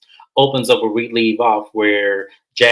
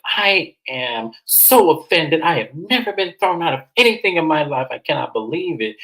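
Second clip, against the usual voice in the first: higher, hammed-up hurt pride; mock offended Stacy; 5 semitones higher than usual. Stacy insulted at being thrown out, mock offended. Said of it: "Stacy is mad".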